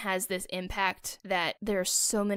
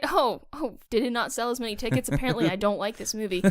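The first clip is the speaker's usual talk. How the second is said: mocking fan voice; 3 semitones higher than usual. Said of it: "Some article told them".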